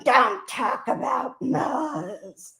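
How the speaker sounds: slow, drawn-out mimicry of her message; mocking imitation. Streamer mocking what a rival told her, slow and snide. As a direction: parrot her line back slowly and snidely. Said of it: "And then all of a sudden".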